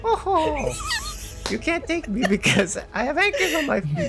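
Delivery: pirate voice. Acted. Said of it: "Can she talk like a pirate?".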